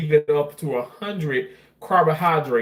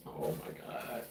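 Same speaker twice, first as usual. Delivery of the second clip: emotional near tears; 10 semitones lower, 17 dB quieter than usual. Real, not acted. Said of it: "Why am I getting emotional?".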